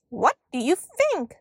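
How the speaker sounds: high-pitched, mildly exasperated retort; scoffing elf. A narrator's reading. Elf answering an impatient girl, scoffing. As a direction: throw the question back in a high voice.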